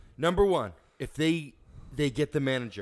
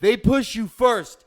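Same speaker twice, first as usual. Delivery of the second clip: 1 emphatic; 7 semitones higher, 10 dB louder, slower than usual. Real, not acted. Heated retelling of a push.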